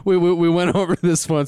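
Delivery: high, stammering through laughter; laughing. Real, not acted. Co-host explaining an old podcast joke, laughing. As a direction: try to explain while cracking up. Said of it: "that's why I was laughing".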